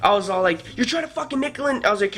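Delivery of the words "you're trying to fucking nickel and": higher-pitched indignant rant; imitated exasperated complaint; retold going off. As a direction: replay yourself going off on someone. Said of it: "started going off on him".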